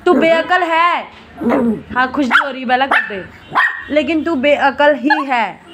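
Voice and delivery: tease-scold her, not really angry; mock anger. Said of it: "इतना गुस्सा आ रहा है". (कुत्ते को झूठा गुस्सा दिखाते हुए डाँटना)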